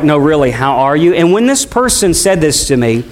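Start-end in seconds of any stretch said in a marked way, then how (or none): 0.0-1.1 lower, earnest question ending in a rise; mean it, really want to know; a gentle probing how are you; sincere, really asking. Retold or imitated. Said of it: "one of those ones where it's like".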